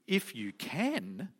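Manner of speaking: slow, incredulous "If you can"; exclaiming. Acted. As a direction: draw out the words in mock disbelief. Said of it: "Jesus exclaimed".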